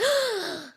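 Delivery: sharp high gasp; shocked gasp. Retold or imitated. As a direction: gasp in mock horror. Kids react to the threat.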